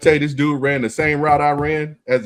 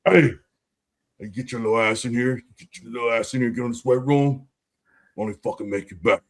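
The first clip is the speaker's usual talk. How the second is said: low-key imitated Jersey accent, softer toward the end; 3 semitones lower, 4 dB quieter than usual. Veteran ordering teammate into weight room, imitated Jersey accent. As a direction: order someone around in a mock Jersey accent. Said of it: "in his Jersey accent".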